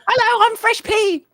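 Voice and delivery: very high, loud squeaky character voice; chipmunk voice. Acted. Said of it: "what I call his girly chipmunk voice".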